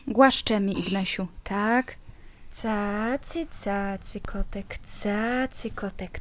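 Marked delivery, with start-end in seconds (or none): 2.6-6.2 hushed cooing. Real, not acted. Soothing baby talk to toddler.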